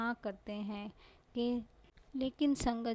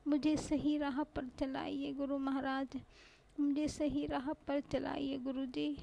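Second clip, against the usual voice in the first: higher, pleading prayer to the guru; a heartfelt, raised plea to the master; 4 semitones higher than usual. Real, not acted. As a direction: beg the guru for help, voice lifted.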